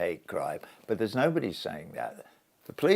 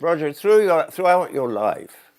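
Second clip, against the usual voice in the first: retold motherly advice; 8 semitones higher, 7 dB louder than usual. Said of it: "she said".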